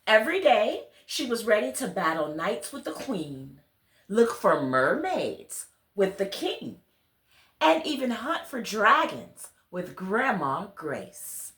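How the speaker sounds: put-on gentle storybook reading to children; story narration. A narrator's reading. Reader telling children a bedtime story, gentle storybook narration. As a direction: read it like a bedtime tale to little listeners. Reads picture book aloud.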